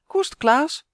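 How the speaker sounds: loud high call to the dog; girl shouting at the dog to settle down. A narrator's reading. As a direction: call the dog sharply to heel. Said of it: "roept San".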